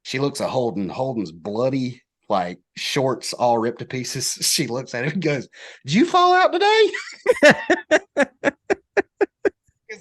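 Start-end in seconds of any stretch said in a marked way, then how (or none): 5.8-10.0 laughing. Retold or imitated. Old lady's question, laughed through.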